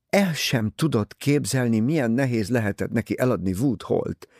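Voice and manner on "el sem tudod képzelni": usual speaking voice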